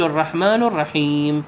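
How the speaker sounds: "الرحيم" closed on a silent m; teacher demonstrates "الرحيم" with no final vowel; stopping on a silent letter. Shown as a demonstration. Correct recitation for the class, silent ending. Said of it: "على السكون".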